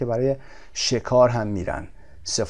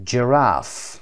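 Giraffe with RAFFE stressed; second-syllable stress. Shown as a demonstration. Teacher showing learners English word stress, RAFFE stressed in Giraffe. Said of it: "قسمت دوم".

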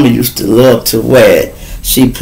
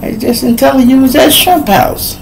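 mock friend voice; 12 semitones higher than usual. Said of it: "they'd be like".

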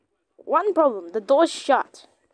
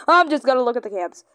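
quick aside; 3 dB louder, much faster than usual. Shown as a demonstration. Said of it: "repeats in whisper".

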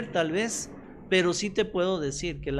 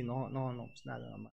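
holding back tears; 6 semitones lower, 11 dB quieter than usual. Retold or imitated. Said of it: "uno viene así".

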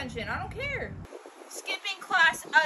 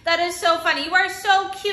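gushing; 2 semitones higher, 9 dB louder than usual. Acted. Mom gushing over costume.

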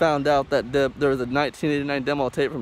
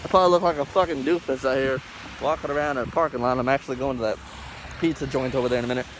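muffled behind a mask; talking through a cloth mask; through a face mask. Real, not acted. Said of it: "Sorry I did it with a mask over my face".

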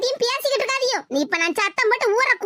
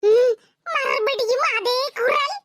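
higher, slow, shaky defiance; scared bravado; 5 semitones higher, slower than usual. Acted. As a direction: brave it out against the ghost. Frightened woman facing the ghost. (பேயிடம் பயத்துடன் வீராப்பு பேசும் குரல்)

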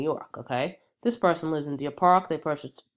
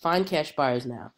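stuffy nasal voice from a cold. Real, not acted. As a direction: speak through a blocked nose. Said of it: "excuse the nasal voice".

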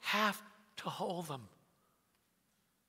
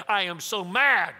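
slow, louder mock fury; mad son, building; 5 dB louder, slower than usual. Son repeats to his dad how mad he is, louder. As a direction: lean harder on the complaint, drawn out and loud.

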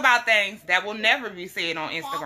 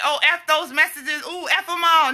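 mock careless self; 6 semitones higher than usual.

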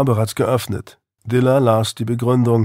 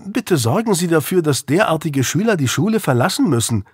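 mock screech; 6 semitones higher than usual. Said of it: "kreischte sie noch".

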